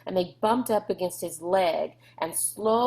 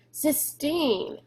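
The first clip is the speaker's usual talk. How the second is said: alarmed call; 8 semitones higher than usual. A narrator's reading. Rob calling to crying girl.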